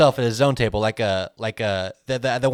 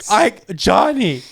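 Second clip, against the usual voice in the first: put-on calling drunk bar patron; 8 semitones higher than usual. Drunk patron hailing Johnny, mock calling out. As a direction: holler high across a bar.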